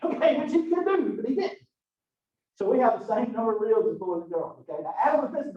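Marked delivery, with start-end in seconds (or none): 0.1-1.6 laughing. Real, not acted. Teacher laughing at own joke.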